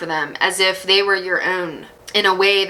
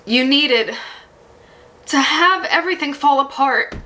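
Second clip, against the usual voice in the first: getting emotional; 5 semitones higher than usual. Real, not acted. Reader to viewer, getting choked up over their hard past. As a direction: voice rising and catching with feeling. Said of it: "Sorry, I'm getting emotional".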